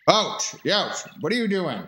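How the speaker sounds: loud startled yelp, then a protest; ouch. Acted. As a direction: yelp as if hit on the head. Struck and protesting.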